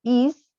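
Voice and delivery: "is" said just as it is written; pronunciation demo. Shown as a demonstration. Teacher teaching verb to be, "is" pronounced as spelt. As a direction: model "is" as one short word. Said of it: "que se pronuncia".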